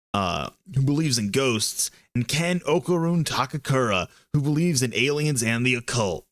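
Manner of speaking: lightly voiced action-trailer narrator; a hint of cool, awesome action voice. Streamer reading a parents' guide like an action trailer, lightly cool action voice. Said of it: "your cool, awesome action voice".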